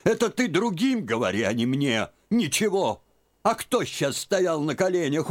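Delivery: put-on high, insistent old woman's scolding; scolding old aunt. A narrator's reading. Aunt scolding Liza for hiding tears, high. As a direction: she won't be fooled.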